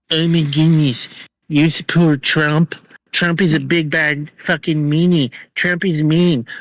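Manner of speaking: a hint of a whiny, prissy voice; lightly mock the pearl-clutching crowd; mocking whiny liberal. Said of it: "don't get me fucking started on the".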